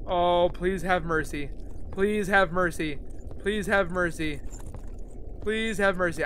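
soft repeated plea for mercy; soft pleading. Real, not acted. Gamer softly begs the unseen creature. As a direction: beg softly, over and over.

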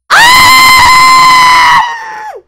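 long, very high loud shriek; scream, held long and high; piercing shriek of shock. Real, not acted. Shocked by twins.

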